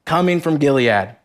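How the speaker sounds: measured, even Bible reading voice; scripture reading. Acted. Preacher reading Genesis aloud to the congregation, solemn reading. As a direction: read the passage steadily and solemnly.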